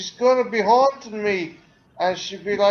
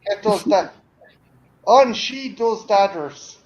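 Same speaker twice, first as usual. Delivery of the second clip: put-on Irish accent; 6 dB louder than usual. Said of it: "a very Irish way of".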